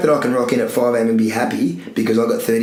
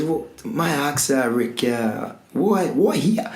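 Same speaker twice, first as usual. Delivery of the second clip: lightly put-on Italian accent, higher and softer, a bit slow; a half-hearted go at an Italian visitor's accent; mock Italian accent; 4 semitones higher, 4 dB quieter, slower than usual. Retelling an Italian visitor questioning the gym's location, half-hearted Italian accent. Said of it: "he's an Italian fella".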